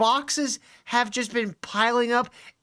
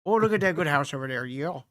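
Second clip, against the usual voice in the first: put-on Canadian accent; 5 semitones lower than usual. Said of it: "talk about the house, bud".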